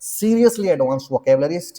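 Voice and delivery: "seriously advanced vocabularies" stretched out word by word; emphatic, slowed. Real, not acted. Teacher urging students toward advanced words, slow and emphatic. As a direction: press each word slowly to make the point.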